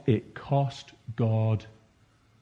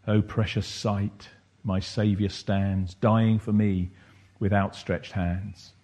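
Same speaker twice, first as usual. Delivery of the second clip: poem recital. Acted. Reads song lyrics as poem.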